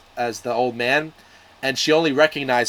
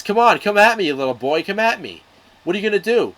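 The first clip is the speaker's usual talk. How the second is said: loud, high, goading retold challenge; mock taunt; 7 semitones higher, 4 dB louder, faster than usual. The brute goading Odysseus's son, loud taunt. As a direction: bait him to come at you, raised voice.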